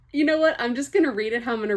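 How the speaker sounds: high, laughing self-mockery; real amused laughter; laughing at herself. Real, not acted. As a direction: giggle at your own bad accent. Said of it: "What was that?".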